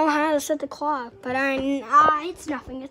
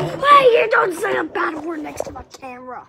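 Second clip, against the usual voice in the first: scolding; 6 dB louder than usual. Real, not acted. Child scolding mom for swearing.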